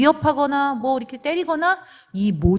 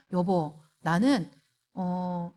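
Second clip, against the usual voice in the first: gentle appeal; 4 semitones lower, 5 dB quieter, much slower than usual. Retold or imitated. Calmly voicing a request to husband.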